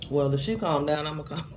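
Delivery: a touch of stubborn sass; talking back like a stubborn kid; mild mock defiance; stubborn retort. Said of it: "It's my little stubborn crazy".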